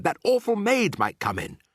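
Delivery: high-pitched, anxious plea; worried high voice; urgent warning. A narrator's reading. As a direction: warn her with pressing worry. Mouse begs before maid comes.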